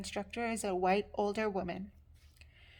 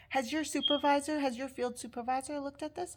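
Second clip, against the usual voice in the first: higher-pitched condescending questioning; imitated condescension; 5 semitones higher than usual. Instructor questions student about supervisor, condescending. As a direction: mimic a doubting instructor's interrogation. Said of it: "in such a condescending way".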